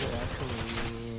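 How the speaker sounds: slow, drawn-out, smug well actually. Shown as a demonstration. Showing his friend how the beggar really said it, smugly and slowly. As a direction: stretch "Well, actually" out slowly, like a know-it-all. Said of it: "You can't say it like that".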